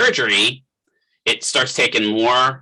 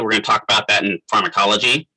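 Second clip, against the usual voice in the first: hiccupping mid-sentence; hiccups; 3 semitones lower than usual. Real, not acted. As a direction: talk with the hiccups. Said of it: "I got the hiccups now".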